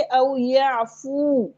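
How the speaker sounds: "औ याफू" with a long, drawn-out final oo; recitation demo. Shown as a demonstration. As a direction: recite "औ याफू" slowly, stretching the ending. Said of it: "हम पढ़ेंगे".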